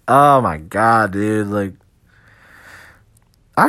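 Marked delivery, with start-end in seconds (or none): 0.1-1.7 shocked. Retold or imitated. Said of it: "So I'm like".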